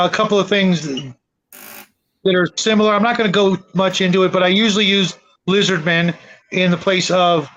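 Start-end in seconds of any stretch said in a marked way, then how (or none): none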